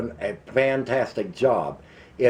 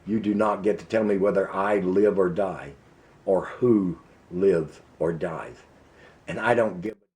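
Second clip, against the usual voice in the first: real anger held down; 3 semitones lower than usual. Real, not acted. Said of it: "I'm really getting mad".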